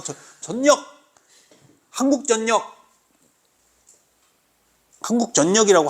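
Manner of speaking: 한국전력 high, ending "jeon-nyeok"; jeonnyeok pronunciation. Shown as a demonstration. Teacher drilling a company name, 한국전력 as high "hanguk jeon-nyeok". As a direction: insist on 전력 with a double n, high. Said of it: "한국전력 이렇게 읽는 거야".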